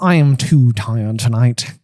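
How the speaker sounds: weary, slow portrait voice; Phineas voice. Acted. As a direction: drawl it out, bored and tired. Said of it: "Very good Phineas voice".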